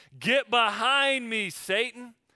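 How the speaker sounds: stern angry voice. Leading a group to say the phrase together, as Jesus to Peter: angry. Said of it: "Let's say it like we're angry".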